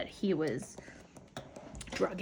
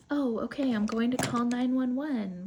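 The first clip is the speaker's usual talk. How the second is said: louder, higher and flustered; panicked; 3 semitones higher, 4 dB louder than usual. Retold or imitated. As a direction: blurt it out in a panic. Panicked father after accident.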